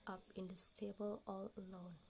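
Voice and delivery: hushed, breathy reading of a poem, mostly whispered; whispered poem recitation. Acted. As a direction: whisper the verses like a spell, lingering on the bells.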